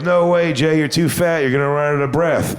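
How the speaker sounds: mock objection. Crowd objects to his boast.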